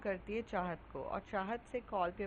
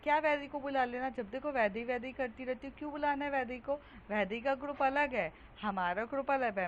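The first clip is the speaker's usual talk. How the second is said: irritated outburst; 3 semitones higher than usual. Acted. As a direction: rattle it off in annoyed protest. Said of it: "इतना गुस्सा क्यों करती हो". (गुस्से में चिढ़कर तेज़ बोलना)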